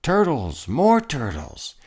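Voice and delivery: loud braying call; king bellowing for turtles; bellowed. A narrator's reading. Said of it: "he bellowed and brayed".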